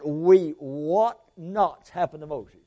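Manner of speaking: slow archaic quote. Shown as a demonstration. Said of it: "You ever use that word".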